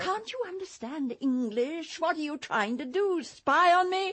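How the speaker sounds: rising anger, loud on spy on me; angry outburst. Acted. Actress lashing out at her companion, furious accusing voice. Angry at Cordelia's spying offer.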